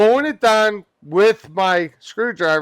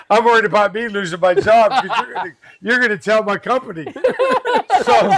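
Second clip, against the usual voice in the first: laughing; 3 semitones higher, faster than usual. Real, not acted. Laughs retelling job worry.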